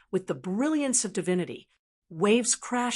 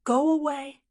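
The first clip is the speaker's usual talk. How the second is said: higher-pitched, firm dismissal; straight-faced; 6 semitones higher than usual. A narrator's reading. Li Qingshan dismissing his friend, straight-faced. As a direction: say it straight, without joking. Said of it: "with a straight face".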